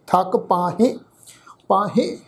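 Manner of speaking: ਪਾਹੇ with the final e nasalised; nasalised ending. Shown as a demonstration. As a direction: end ਪਾਹੇ on a humming, nasal "hen". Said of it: "ਇੱਥੇ ਵੀ ਬਿੰਦੀ pronounce ਹੋਏਗੀ".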